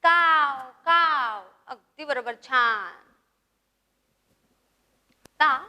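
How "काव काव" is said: drawn-out, falling "kaav" caw; crow call. Shown as a demonstration. Teacher showing pupils how a crow calls, drawn-out caws. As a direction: imitate a crow cawing twice. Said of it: "तुम्ही सुद्धा ओरडायचं आहे".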